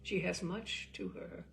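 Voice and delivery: measured, reflective literary reading; story narration. A narrator's reading. Host reading a story to listeners, reflective.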